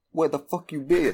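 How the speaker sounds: high, sudden mock blurt of the Chinese guy's line; light imitation of a character's first English line; quoting the Chinese guy. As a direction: pop it out high, imitating a surprise outburst. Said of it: "where he's like".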